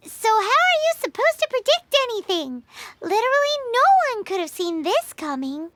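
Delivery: fast, flustered rush of words; flustered reassurance. Acted. Companion scrambling to console a friend, flustered and fast. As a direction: rush to excuse your friend.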